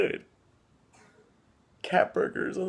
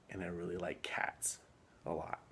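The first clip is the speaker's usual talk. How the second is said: hammed-up choked-up whisper; mock emotional whisper; 13 semitones lower, 15 dB quieter than usual. Man on a dating video pretends to get choked up, mock tearful whisper. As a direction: whisper it like you're about to cry, but overplay it. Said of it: "sorry, I'm getting emotional".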